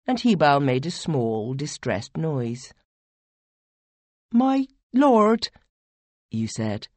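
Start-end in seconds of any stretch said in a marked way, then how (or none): 4.3-5.5 higher, louder urgent plea; pleading young voice. Acted. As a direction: call out to your lord, anxious. You character pleads with lord.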